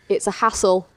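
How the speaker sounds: mimicking Giuseppe saying "hassle" as "assle" with no H; dropped H hassle. Podcaster lightly imitating the baker's dropped-H "hassle". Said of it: "it didn't sound like hassle 'cause he didn't say".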